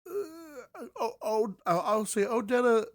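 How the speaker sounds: breaks into a high giggle mid-thought; laughing. Real, not acted. Reviewer laughing at herself while explaining King's dialogue, giggling.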